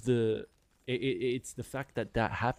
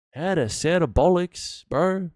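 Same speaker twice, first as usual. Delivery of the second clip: emphatic exclaim; 6 semitones higher, 7 dB louder, slower than usual. Real, not acted. Repeating the point louder.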